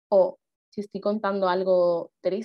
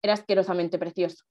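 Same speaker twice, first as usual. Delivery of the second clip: ironic tone. Shown as a demonstration. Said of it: "Y este tono".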